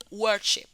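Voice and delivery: "Worship" with strong WOR, unaccented -ship; first-syllable stress. Shown as a demonstration. Teacher showing the last syllable is weak, first-syllable stress on "Worship". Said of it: "no está acentuada".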